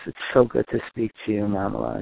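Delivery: put-on gentle, loving greeting to a child; warm parent voice. Shown as a demonstration. Parent calling a child far away, warm and gentle. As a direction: greet your child with plain affection. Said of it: "the warmth in your voice".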